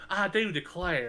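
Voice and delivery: Southern belle. Retold or imitated. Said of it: "But it's like".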